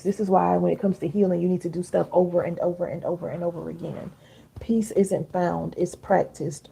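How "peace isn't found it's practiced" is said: slowed repeat. Shown as a demonstration. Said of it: "Write that down".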